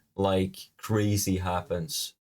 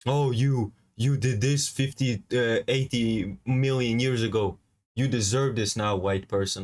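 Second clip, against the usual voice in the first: lightly mock a smug commenter. Mimicking smug commenters who blame a white victim, lightly mocking. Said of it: "what the fuck are you talking about".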